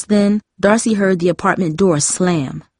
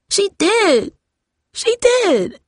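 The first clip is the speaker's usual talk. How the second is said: much higher, broken sobbing insistence; 14 semitones higher, much slower than usual. A narrator's reading. Jamie sobs to her sister that Grandma is gone. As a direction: sob it out twice, grief breaking through. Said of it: "Jamie sobbed".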